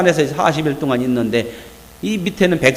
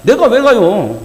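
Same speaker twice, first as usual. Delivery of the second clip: mild reluctant protest; 4 semitones higher, 5 dB louder, slower than usual. Acted. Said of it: "함축해서 얘기하면".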